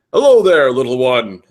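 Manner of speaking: loud, lifted hello that falls away; amicable greeting. A narrator's reading. Reverend greeting a little boy, amicable. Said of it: "the man greeted amicably".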